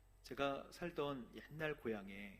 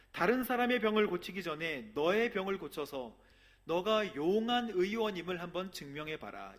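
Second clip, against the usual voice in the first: taunting challenge; 5 semitones higher, 9 dB louder than usual. Acted. Townspeople taunting Jesus.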